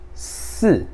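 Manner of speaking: "si" with the sound kept inside; inward "si". Shown as a demonstration. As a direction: Mandarin fourth-tone "si", pulled inward. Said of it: "Pra dentro".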